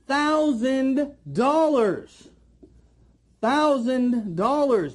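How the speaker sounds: THOUSAND DOLLARS very slow, each word stretched; big-number emphasis. Shown as a demonstration. Trainer showing how to make the price big, very slowly. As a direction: draw out THOUSAND and DOLLARS to sound huge. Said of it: "big number".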